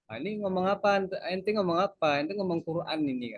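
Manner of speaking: lightly voiced teasing Arab driver; mocking Arab. Teacher imitates an Arab driver mocking formal speech. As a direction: tease the student's bookish Arabic. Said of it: "dia ngeledein".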